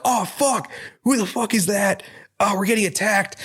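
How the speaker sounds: high-pitched, panicked cry of ambushed thugs; mock panic. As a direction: yelp it like you're being picked off. Gang members ambushed by monster.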